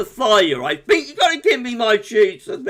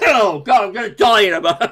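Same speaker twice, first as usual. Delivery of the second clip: laughing through a coughing fit; words broken by coughs and laughter; 2 semitones higher, 4 dB louder, faster than usual. Real, not acted. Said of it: "I'm fine, don't worry".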